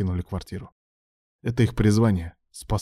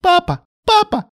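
put-on very high, loud child's call; little girl calling; 8 dB louder than usual. A narrator's reading. Young daughter running in, calling her father happily. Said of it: "голос Анны".

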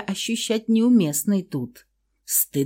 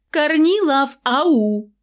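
high loud call, searching; 9 semitones higher, 5 dB louder, slower than usual. Acted. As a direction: call out across the flat. Woman calls out entering home.

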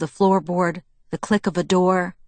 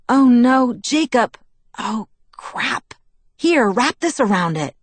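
high, panicky exclamations; alarmed; 6 semitones higher, 4 dB louder, slower than usual. A narrator's reading. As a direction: rush to help someone who is bleeding. Panics at his bleeding hand.

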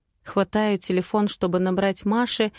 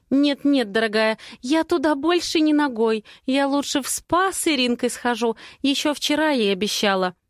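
higher-pitched, emphatic chatty friend; breezy refusing girlfriend; 5 semitones higher than usual. Acted. Friend refuses a trip to the garage, high and emphatic. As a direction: refuse firmly in a high, lively voice.

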